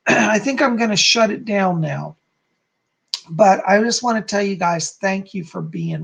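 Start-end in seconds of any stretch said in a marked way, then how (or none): 0.0-2.2 tired, worn-out voice; losing voice. Real, not acted. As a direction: talk through a hoarse, tired throat. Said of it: "I am losing my voice".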